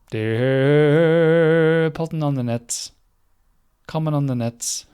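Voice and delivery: mock announcement. Imitating Alexa's odd word.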